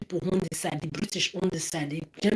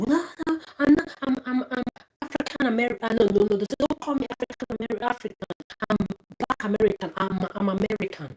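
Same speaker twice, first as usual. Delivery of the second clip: mocking impression; 4 semitones higher than usual. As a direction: squeak it out like a defensive denier. Mocking Black Americans rejecting "African.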